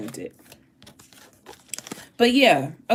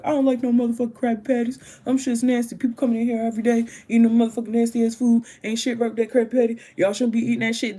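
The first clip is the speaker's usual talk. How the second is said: fast, grumbling cartoon squid rant; grumpy Squidward; 4 semitones higher, faster than usual. Squidward griping about Krabby Patties, fast grumpy rant. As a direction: rattle it off quick like a fed-up cashier. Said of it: "Squidward was like".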